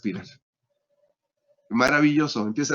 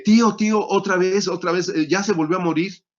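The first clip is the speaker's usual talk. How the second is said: high, loud panicky calling of uncle; alarmed call; 5 semitones higher, 4 dB louder than usual. Retold or imitated. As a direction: cry out in alarm, then ease down a little. Nephew alarmed, calls uncle again.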